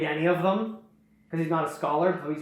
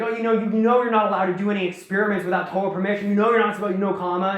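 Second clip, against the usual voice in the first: raised, rapid mock scolding; imitated berating; 4 semitones higher, 5 dB louder, faster than usual. Toa berating Nokama over experiments, imitated scolding. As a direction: rattle off a telling-off, louder and higher. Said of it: "berating Nokama".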